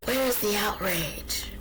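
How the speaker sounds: breathy whisper, held back; hushed outrage. Real, not acted. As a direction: whisper it as if fighting the urge to scream. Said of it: "I wanna scream so much".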